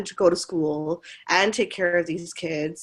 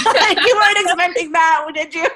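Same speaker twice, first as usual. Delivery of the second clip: laughing, higher and louder; teasing laugh; 11 semitones higher, 8 dB louder than usual. Real, not acted. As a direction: tease him through a laugh. Teasing the parent.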